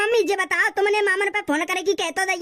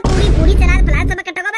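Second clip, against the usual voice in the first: louder, busy listing; loud welcome; 9 dB louder than usual. Acted. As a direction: call out everything that's ready. Hostess listing food loudly. (मेहमान को ज़ोर से खाना गिनाना)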